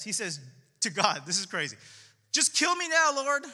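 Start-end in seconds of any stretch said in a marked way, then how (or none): 2.3-3.4 mock-dramatic plea, pitched up and louder; overly dramatic. Preacher mocking Jonah's plea to God, hammed-up dramatic. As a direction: ham up a melodramatic death wish. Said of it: "He's so dramatic".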